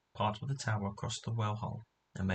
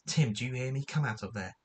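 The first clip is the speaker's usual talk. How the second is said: raised, calling voice to a dog down a hole; shouting at the dog; 2 semitones higher, 4 dB louder than usual. Acted. George shouting at Tim to come out of the hole, loud and firm. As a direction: call him out, firm and loud. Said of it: "shouted George".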